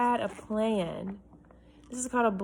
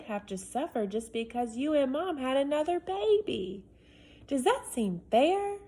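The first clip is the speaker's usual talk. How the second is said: put-on indignant boy; 3 semitones higher than usual. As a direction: argue it like an oldest child wronged. Reads Alex's letter aloud.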